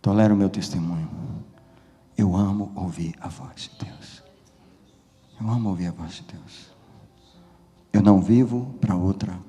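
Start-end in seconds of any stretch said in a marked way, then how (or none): 2.1-4.2 hushed, breath-only confession; intimate whisper. Real, not acted. Preacher repeating his testimony to church, whispered and intimate. 5.4-6.7 low, soft murmur; intimate hushed repeat. Real, not acted. Preacher repeating his testimony to church, soft and intimate.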